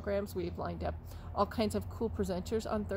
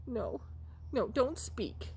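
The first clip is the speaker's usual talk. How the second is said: ordinary delivery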